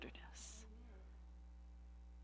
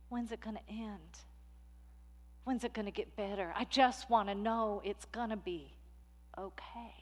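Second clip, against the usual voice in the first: softer, tired and hushed; weary inner voice; 7 dB quieter than usual. Acted. The tired soul longing to be okay, softer and hushed. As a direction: sigh it out, worn down.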